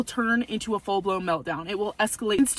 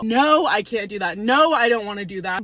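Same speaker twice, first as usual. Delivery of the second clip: firm, clear, louder no; stern no; 4 dB louder than usual. Shown as a demonstration. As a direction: shut it down, short and firm. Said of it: "a stern, firm, clear, and concise no".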